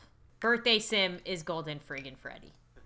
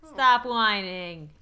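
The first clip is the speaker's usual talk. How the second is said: scolding Scott; 7 dB louder, much slower than usual. Pretend. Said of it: "Scott, stop whining".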